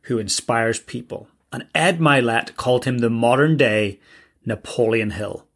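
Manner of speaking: measured announcer read with deliberate phrasing; guest introduction read. Acted. Host introduces Evan Carmichael to listeners, scripted announcer read.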